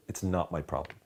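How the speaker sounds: "not" leaned on, rest falling away softly; stress on "not". Shown as a demonstration. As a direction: lean on "not", then drop off. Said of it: "at least four different ways".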